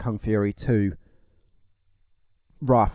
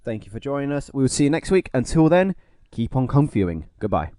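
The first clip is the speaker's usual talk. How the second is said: smooth radio sign-off; smooth outro voice. Acted. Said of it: "vintage smooth outros".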